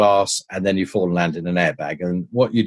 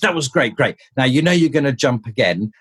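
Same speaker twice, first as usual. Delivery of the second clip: retold excitement, pitched higher; excited director; 4 semitones higher than usual. Director praises the stuntman after the jump, excited. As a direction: imitate a director buzzing after the take. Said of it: "all excited".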